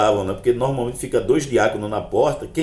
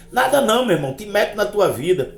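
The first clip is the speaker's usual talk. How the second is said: animated, high-pitched dismissal; irritated brush-off; 10 semitones higher than usual. Retold or imitated. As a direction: act out telling a busybody off. Brushes off prying believer.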